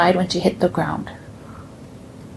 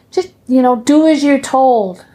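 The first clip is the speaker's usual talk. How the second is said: mock stern nun; 5 semitones higher, 4 dB louder than usual. Nun scolding child.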